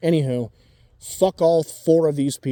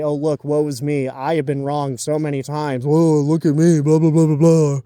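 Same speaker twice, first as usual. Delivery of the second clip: mocking self-pity; 4 dB louder than usual. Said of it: "as a way to say".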